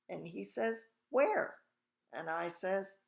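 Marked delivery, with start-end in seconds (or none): 1.1-1.6 high, loud questioning shout; bewildered father. A narrator's reading. Father hunts for his invisible son, bewildered shout. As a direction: call out loudly, pitch leaping up.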